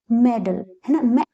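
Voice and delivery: मेडल with a short "e", then its first part मैं alone; short vowel sound. Shown as a demonstration. Teacher reading an exception word, short first vowel. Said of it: "short sound पढ़ते हैं इसको".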